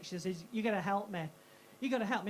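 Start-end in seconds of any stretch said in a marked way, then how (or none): 0.5-1.3 mildly urgent mock plea; friend in a panic. Friend ringing the comedian in a panic, mock urgent voice. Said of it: "in that voice". 1.8-2.3 mildly urgent mock plea; lightly voiced panicky caller; friend in a panic. Friend ringing for help, mock panicked voice. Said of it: "in that voice".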